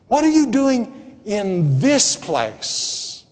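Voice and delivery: "in this place" set apart and drawn out; slow down and lean on "in this place"; incredulous weight on "in this place"; stress on in this place. Acted. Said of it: "emphasis was on the next to the last word".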